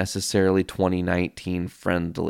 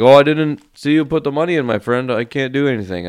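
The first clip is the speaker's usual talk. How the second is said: imitating the attendant; 7 semitones higher, 7 dB louder, faster than usual. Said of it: "And the guy's like".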